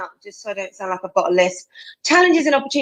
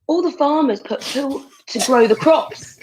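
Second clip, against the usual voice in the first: laughing; 4 semitones higher than usual. Real, not acted.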